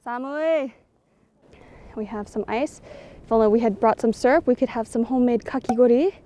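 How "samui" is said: shivery cry of cold; cold exclamation. Real, not acted. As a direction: react to the cold in Japanese. Reacting to cold snow.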